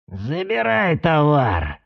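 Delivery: slow creaking command; creaky voice. Acted. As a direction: creak the order out. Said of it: "проскрипел кому-то Аяй".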